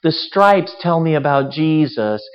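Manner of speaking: high, loud, gushing mock enthusiasm; gushy. Preacher mocks a gushy Christmas lover, loud and high. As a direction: gush over candy canes like an overexcited fan. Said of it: "like, gushy".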